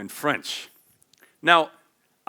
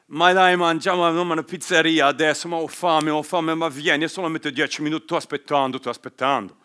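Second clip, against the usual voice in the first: loud, fast, animated Italian chatter; lively Italian; 2 semitones higher, 5 dB louder, faster than usual. Shown as a demonstration. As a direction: urge a friend to the pizzeria, hands flying. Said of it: "if I was talking Italian today, I would probably like".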